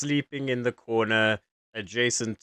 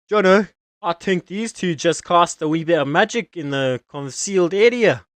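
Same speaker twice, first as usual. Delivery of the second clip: guard voice; 4 semitones higher, 4 dB louder than usual. Acted. Guard reports to partner.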